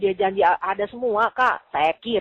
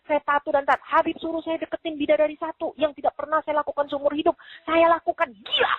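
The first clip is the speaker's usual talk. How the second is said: heated rant; 6 semitones higher than usual. Retold or imitated. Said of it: "saya bilang ya".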